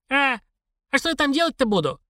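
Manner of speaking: put-on high-pitched puzzled old woman; bewildered old woman. A narrator's reading. Old woman asking the stranger about Leningrad, bewildered.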